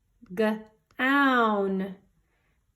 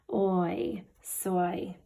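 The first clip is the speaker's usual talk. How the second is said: whisper; 3 semitones lower, 3 dB quieter than usual. Shown as a demonstration. Sounding out letters softly.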